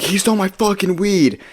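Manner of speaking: high-pitched mock outrage; indignant protest. Friend protests after the fight.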